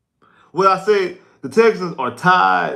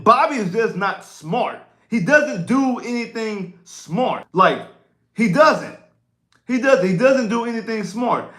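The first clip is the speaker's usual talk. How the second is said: higher, slow exasperated insistence; emphatic doesn't, pitched up in disbelief; exasperated rant; 6 semitones higher, slower than usual. Real, not acted. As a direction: vent your frustration at the coach. Venting about play caller.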